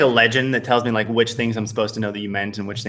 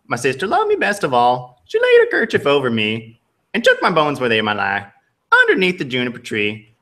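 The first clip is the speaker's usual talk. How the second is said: Southern bird voice. Acted. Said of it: "It's, like, a little bit Southern".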